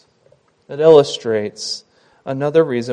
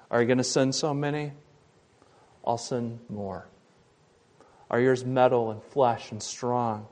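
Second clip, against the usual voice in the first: voice of God; 3 semitones lower, 9 dB quieter than usual. Acted. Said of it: "It was almost like God was saying".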